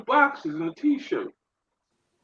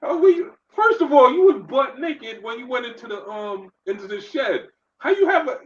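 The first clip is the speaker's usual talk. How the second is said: laughing disbelief; 5 semitones higher than usual. Real, not acted. Laughing retelling of absurd escape.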